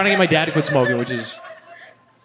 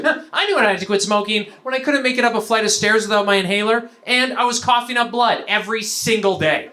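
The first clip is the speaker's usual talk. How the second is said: ready-made answer; 4 semitones higher than usual. Retold or imitated. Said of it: "he already had his answer locked and ready".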